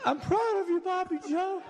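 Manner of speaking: imitating a weak old father on his deathbed; weakened dying voice. Dying father weakly tells the son-in-law he loves him. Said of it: "in a weakened voice".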